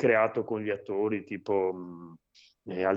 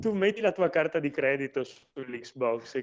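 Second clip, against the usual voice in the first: high, loud coaxing sales pitch; scammer voice; 7 semitones higher, 5 dB louder than usual. Retold or imitated. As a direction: sell it like a smooth con man. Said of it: "Lui ti dice".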